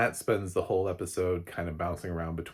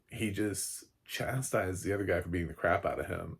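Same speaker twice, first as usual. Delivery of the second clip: ordinary talk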